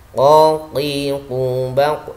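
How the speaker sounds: "Qa, qi, qu" drawn out with a heavy back q; qaf drill. Shown as a demonstration. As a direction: chant "Qa, qi, qu" from the back of the tongue. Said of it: "contoh huruf qaf". ("Qa, qi, qu" tebal dari pangkal lidah)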